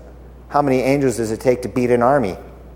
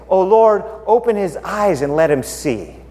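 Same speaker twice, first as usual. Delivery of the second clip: prayer; 4 semitones higher than usual. Acted. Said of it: "he prays".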